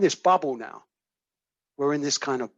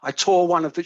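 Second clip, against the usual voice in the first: retold crying; 3 semitones higher, 4 dB louder than usual. Distraught caller admits tearing up a prescription, retold crying. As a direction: imitate her upset with understated crying. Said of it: "and she's crying, she's crying".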